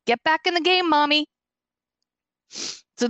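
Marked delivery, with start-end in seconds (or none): 0.0-1.3 higher, cheerful coaxing voice; encouraging dog's voice. Retold or imitated. Late dog encouraging his mom to do the show, higher cheerful voice. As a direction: voice the dog urging her on, pitched up. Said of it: "he was encouraging me".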